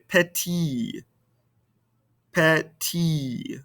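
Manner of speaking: "Petit" with the final T left silent. Shown as a demonstration. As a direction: end "Petit" on the vowel, no T heard. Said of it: "we don't pronounce the ending consonant".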